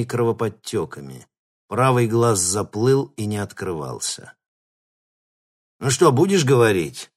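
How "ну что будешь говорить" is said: louder, higher threatening growl; bully him into talking. A narrator's reading. Thug interrogating the bound captive, growling. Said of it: "прорычал Коготь".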